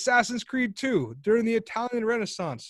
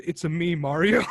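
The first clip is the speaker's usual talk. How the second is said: put-on Italian Mario accent; 2 semitones lower, 4 dB louder than usual. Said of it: "he says".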